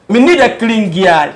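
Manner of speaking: put-on slow, drawn-out line in a light Jamaican Patois accent. Artist explains Patois, quotes a lyric in light Jamaican Patois accent. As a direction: ease into a mock Jamaican Patois lilt, unhurried. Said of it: "but accent na akɔyɛ Patois".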